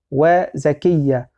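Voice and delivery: وزكية said slowly, short vowel after the zay; slow, careful وزكية with short zay; short reading, slow. Shown as a demonstration. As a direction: draw out وزكية with no long a. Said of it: "حتى تشمل القراءتين".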